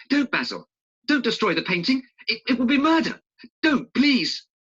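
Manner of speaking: high, loud, desperate pleading; desperate plea. Acted. Dorian begging Basil not to cut the painting, in a high desperate plea. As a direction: beg him to stop, rising in panic.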